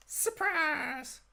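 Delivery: sing-song high "surprise"; spring it on them like a jump scare; playful shout. Acted. Table jokes about surprise.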